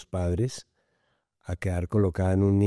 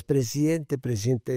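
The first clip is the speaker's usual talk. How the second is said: put-on little girl calling; 4 semitones higher than usual. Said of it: "llega la vocecita atrás".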